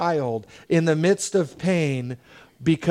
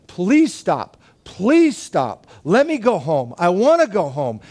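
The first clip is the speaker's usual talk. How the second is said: imitating a child's begging, mildly raised; retold pleading; 2 semitones higher, slower than usual. Son begging dad during needle treatment, mock pleading. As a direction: plead like a distressed kid, without truly screaming. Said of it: "he is just screaming".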